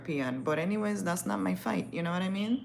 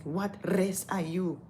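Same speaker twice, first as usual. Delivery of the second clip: drawn-out, deliberate words; imitated insistent question. African lady questioning the model's race, imitated slow insistence. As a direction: stretch each word of the question.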